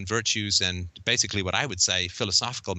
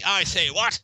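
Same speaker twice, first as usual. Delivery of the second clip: mocking upper-class British accent, pitched much higher and louder; 9 semitones higher, 3 dB louder, slower than usual. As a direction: ham up a snooty upper-class British accent with a high, loud "what?". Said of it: "upper-class British accent".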